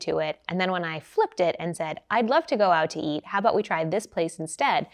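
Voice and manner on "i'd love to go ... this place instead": light, bright and friendly; a friendlier, lighter take on the same reply; lighter, brighter tone. Shown as a demonstration. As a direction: invite them warmly toward the cheaper place. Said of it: "That's a much lighter, brighter tone of voice".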